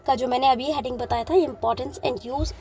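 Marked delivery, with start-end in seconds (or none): 1.3-2.5 importance and use spaced out word by word; slow heading dictation. Shown as a demonstration. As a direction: say the heading slowly for note-taking. Teacher repeats heading slowly.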